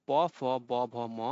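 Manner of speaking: "প, ফ, ব, ভ, ম" recited with lips touching; bilabial consonants. Shown as a demonstration. Teacher lists lip consonants for class, "প, ফ, ব, ভ, ম" formed by both lips. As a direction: sound out "প, ফ, ব, ভ, ম" on the lips. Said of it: "এই ধ্বনিকে ওষ্ঠ ব্যঞ্জন বলা হয়েছে".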